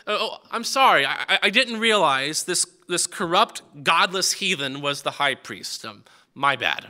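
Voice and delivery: sarcastic, emphatic fake apology; feigned innocence with a sarcastic edge; mock apology. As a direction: pretend to be sorry, leaning on the insult. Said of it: "he's being sarcastic".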